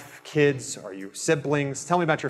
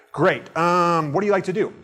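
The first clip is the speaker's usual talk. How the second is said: fake, uncaring; 3 semitones higher than usual. Shown as a demonstration. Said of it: "He didn't care".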